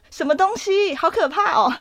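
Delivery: half-playing the scared girl; mild mock fear asking what it is. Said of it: "我就吓到，因为我超怕的".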